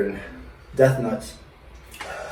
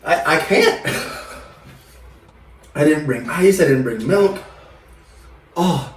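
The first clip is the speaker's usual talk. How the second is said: mouth burning from spicy food. Real, not acted. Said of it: "feels like I used a scorpion's tail as chapstick".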